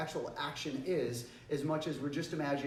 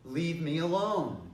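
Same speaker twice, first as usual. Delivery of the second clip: slow, louder firm command; strongest take; 2 semitones higher, 5 dB louder, slower than usual. Shown as a demonstration. Last warning to someone still bothering you, loud and firm. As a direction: draw it out as a forceful order. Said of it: "each time I get just a little bit stronger".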